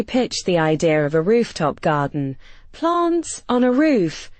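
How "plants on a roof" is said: high, slow scoff in a different voice; unimpressed kid's disbelief. A narrator's reading. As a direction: scoff at the idea, pitch up and draw it out. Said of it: "Jamal scoffed".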